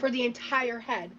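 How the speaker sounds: words pushed out on a slow burp. Real, not acted. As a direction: talk through a long burp. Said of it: "Burping in Morse code".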